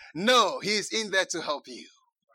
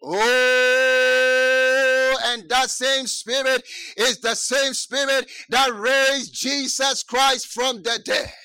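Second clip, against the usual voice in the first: long loud opening cry, then driving preacher voice; impassioned preaching; 4 semitones higher, 6 dB louder, much slower than usual. Real, not acted. Preacher proclaims the resurrection to the congregation, impassioned. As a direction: preach it out with full voice.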